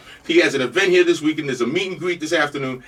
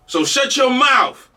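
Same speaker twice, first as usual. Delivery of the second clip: slow, higher teasing shut your mouth; playful slow retort; 6 semitones higher, much slower than usual. Real, not acted. Host teasing listeners, slow and high. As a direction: drag it out teasingly.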